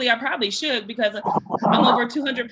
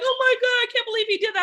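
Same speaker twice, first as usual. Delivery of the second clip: mock shocked woman; 12 semitones higher, faster than usual. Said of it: "women that would be like".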